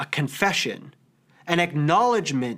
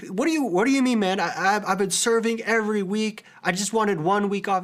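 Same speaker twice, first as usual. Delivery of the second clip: higher mock-indignant protest; 4 semitones higher than usual. Young leader protesting to his angry mentor, mock indignant. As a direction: retell your own huffy pushback. And I was so mad.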